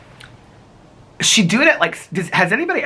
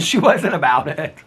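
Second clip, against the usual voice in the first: higher, amused, a bit slower; laughing repeat; 5 semitones higher, 3 dB louder than usual. Shown as a demonstration. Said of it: "and she wasn't about it".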